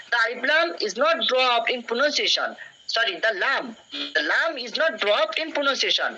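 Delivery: deliberate, slow dictation of the rule; slow classroom read-aloud; slow textbook reading. Shown as a demonstration. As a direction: read each word out slowly for the class.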